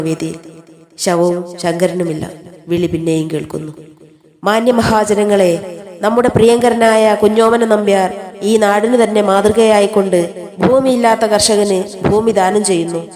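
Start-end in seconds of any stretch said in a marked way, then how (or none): 4.4-13.1 slow, measured public announcement. Acted. Announcer telling villagers of a land gift, slow and formal. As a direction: address the gathered public, drawing out the words. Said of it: "ആവർത്തിക്കപ്പെടുന്ന അറിയിപ്പ്".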